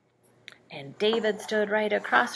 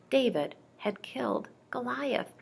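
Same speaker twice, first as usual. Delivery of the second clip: whisper; 5 semitones higher, 4 dB quieter than usual. A narrator's reading. Storyteller hushes at the climax.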